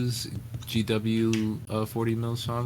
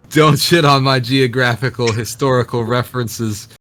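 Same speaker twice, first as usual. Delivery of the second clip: mock-indignant protest; 4 semitones higher, 8 dB louder than usual. Real, not acted. Joking defence after being laughed at.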